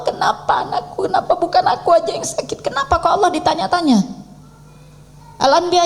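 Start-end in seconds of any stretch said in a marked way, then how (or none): 0.0-4.3 mock protesting whine. Mocking a protesting parent.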